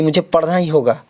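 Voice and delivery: word stress demo on पढ़ना. Shown as a demonstration. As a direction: lean on पढ़ना in मुझे पढ़ना ही होगा. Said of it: "पढ़ने पे जोर दे रहे हैं".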